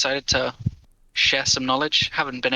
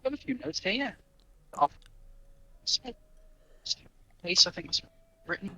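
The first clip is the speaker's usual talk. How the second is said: muffled, cutting in and out; bad mic, garbled and distant; underwater; 6 semitones higher, 9 dB quieter than usual. Real, not acted. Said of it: "It sounds like you're underwater".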